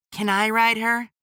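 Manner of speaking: put-on high, bright little boy; an excited kid asking a question; eager child voice. A narrator's reading. Child character voiced by narrator.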